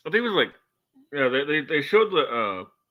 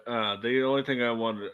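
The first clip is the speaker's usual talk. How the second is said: usual speaking voice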